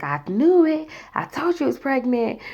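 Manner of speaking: high, emphatic mock exclamation; told-you-so. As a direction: imitate a sister crowing that she was right. Sister's told-you-so when called.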